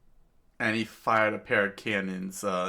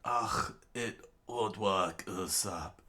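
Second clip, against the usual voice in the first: strained, slow groaning words; Dalton in pain; slower than usual. Acted. Wounded man carried on Usopp's back, pained. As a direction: push it out through pain. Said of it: "Dalton said, um, in pain".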